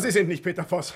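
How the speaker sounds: amused, scoffing laugh; laughing disbelief. Acted. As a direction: laugh off his claim. Disbelieving the stranger's claim.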